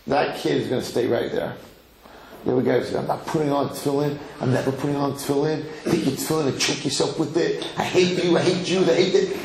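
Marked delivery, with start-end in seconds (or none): 3.0-9.4 quick mock defiance, rising into hate; hateful student. Rebellious student refusing his teacher, mildly acted hatred. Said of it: "if you hate me".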